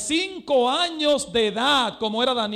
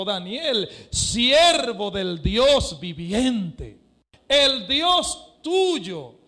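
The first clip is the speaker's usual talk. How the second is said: slow, drawn-out, mournful call; sad voice; much slower than usual. Acted. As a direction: stretch the words like a heartbroken king. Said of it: "con voz triste". (con voz triste y muy lenta)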